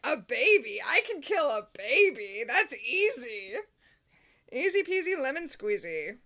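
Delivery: loud, giddy villain delight; gleeful excitement. Retold or imitated. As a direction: gloat like a happy kid with a new toy. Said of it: "Cirque gets really excited".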